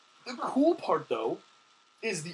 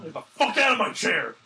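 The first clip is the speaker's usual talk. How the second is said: mock yell; 3 semitones higher, 7 dB louder than usual. Friend jokingly shoos him from chair.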